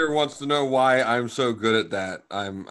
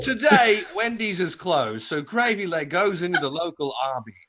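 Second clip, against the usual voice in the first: mock narrator.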